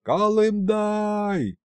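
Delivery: протяжный высокий зов вверх; позови, растягивая имя. A narrator's reading. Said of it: "задрал кверху голову и заорал". (царь зовёт полковника, протяжно и высоко)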